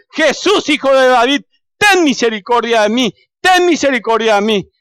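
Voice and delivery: high, insistent cry for mercy; pleading, repeated beggar's shout; persistent shouting. Acted. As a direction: keep calling out, refusing to be hushed. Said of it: "Y él sigue gritando".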